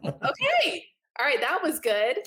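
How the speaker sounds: mock relieved surprise. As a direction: play-act being thrown off by his calm. Mock relief after flat reply.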